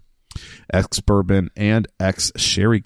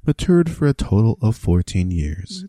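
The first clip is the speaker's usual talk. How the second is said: NPR read. Shown as a demonstration. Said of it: "just like I'm on N P R".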